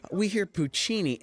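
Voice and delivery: a high, slow mock Streisand line; drawn-out movie-star voice, lightly imitated; imitating Streisand, slow. Streisand on set to the extras, a slow, high mock diva line. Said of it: "she's like".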